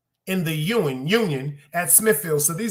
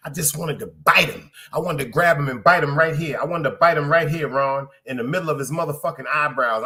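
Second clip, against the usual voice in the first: angry; 2 semitones lower, 4 dB louder than usual. Real, not acted. Venting rage at supervisor.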